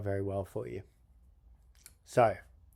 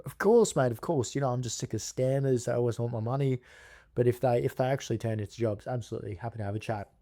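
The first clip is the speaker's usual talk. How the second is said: eager tradesman. Retold or imitated. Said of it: "I'm gonna do an impersonation".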